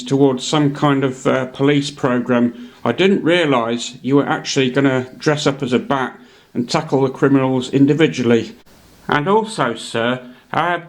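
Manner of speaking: lightly voiced butler, politely puzzled; a hint of a doubting old butler; Alfred questioning Bruce's crimefighting plan, mild Caine voice; Michael Caine as Alfred. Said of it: "here's a word from Sir Michael Caine".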